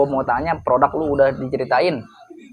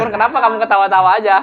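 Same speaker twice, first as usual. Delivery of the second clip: laughing; 6 semitones higher, 5 dB louder, faster than usual. Real, not acted. Teasing friend who keeps laughing.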